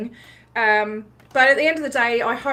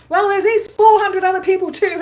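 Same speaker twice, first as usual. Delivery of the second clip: louder, higher, mock cross retort; retold angry retort; 9 semitones higher, 7 dB louder than usual. Vlogger retelling her sharp reply to a Scientologist, mildly angry. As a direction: throw the line back at him, a touch heated. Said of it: "I got a bit angry".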